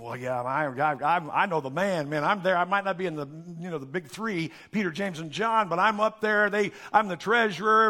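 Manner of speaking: lightly voiced cocky Judas bragging; boastful Judas. Preacher voicing Judas bragging about his rank, lightly cocky. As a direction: puff up like a proud insider. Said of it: "Judas thinking".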